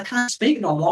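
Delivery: high-pitched retold plea; retold nervousness. Interviewee pleading with the interviewer, retold nervous. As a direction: mildly play up being tongue-tied with nerves. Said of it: "where I'm so nervous".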